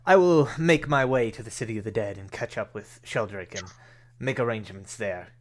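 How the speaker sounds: lightly voiced benefactor, firm loud start easing off; formal Rainier. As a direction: announce plans in a lightly acted formal voice. Voices Rainier announcing his plans.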